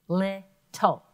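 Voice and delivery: "Little." split LIT-tle; two clear beats on "Little."; syllable beats. Shown as a demonstration. Teacher models chin-drop beats for class. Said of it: "Put your hand below your chin".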